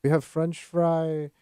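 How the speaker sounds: slow mock Russian accent; broken English, heavy Russian accent. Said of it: "Stop doing the Russian accent".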